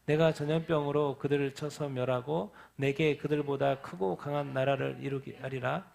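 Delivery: slow, measured Bible reading; solemn scripture reading aloud. Acted. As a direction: read the passage like a prayer. Reads scripture and prays.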